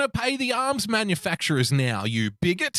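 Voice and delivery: lightly acted indignant online commenter; mock outrage. Acting out an outraged internet commenter.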